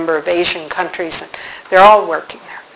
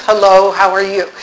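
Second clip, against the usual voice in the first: absent-minded greeting. Retold or imitated. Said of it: "I was in another world".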